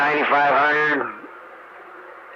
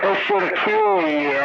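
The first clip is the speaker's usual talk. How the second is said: laughing; slower than usual. Real, not acted. Repeats the joke, amused.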